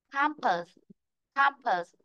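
"Campus" twice, CAM stressed, falling end; stress on first syllable. Shown as a demonstration. Teacher drills the tricky word, first syllable stressed. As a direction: hit "Cam", drop to a weak "pus". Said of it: "nên bạn lưu ý cái từ này".

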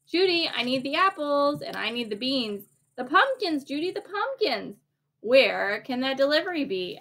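rising, urgent fret over the pumpkins; a busy manager in a flap; frantic Judy. Acted. Judy frets to William about the missing delivery, urgently.

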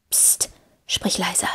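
slow, whispered shush; hushed warning. A narrator's reading. Legolas hushes Gimli as they spot someone, urgent whisper. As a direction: whisper a drawn-out warning to hush. Hushing companion near a stranger.

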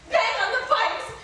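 slow, loud order. Acted. Wife orders her husband to bang the pipes, slow and loud. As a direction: command him to go bang.

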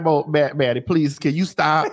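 low, weary plea; Mo's pleading voice. Retold or imitated. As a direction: beg them to stop, tired. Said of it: "Sometimes Mo be like".

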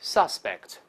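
"suspect" as a noun, the sus- syllable stressed; noun stress on first syllable. Shown as a demonstration. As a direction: read "suspect" with the weight on sus-. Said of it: "但重音跑前面去了". (名词suspect，重音在前)

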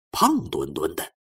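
plain reading voice

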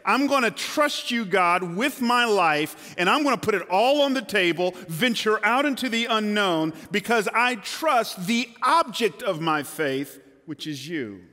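earnest prayer. Pretend. Believer voiced vowing trust to God, impassioned. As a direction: pour your heart out in trust.

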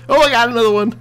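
high-pitched, loud cheering; excited urging. Real, not acted. Player spots another target, excited high yelling. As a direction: urge the attack on in a high yell.

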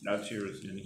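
talking with food in mouth; chewing while talking. Real, not acted. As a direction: mouth partly full. Seen 1: Man ate snack at -5; jaw and cheeks show chewing while speaking.

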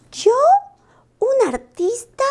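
agudo, lento, incrédulo y feliz; que no se lo cree, subiendo mucho; sorpresa ilusionada. Acted. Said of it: "preguntó Lupo y sonrió contentísimo". (Lupo sorprendido y encantado, muy agudo)

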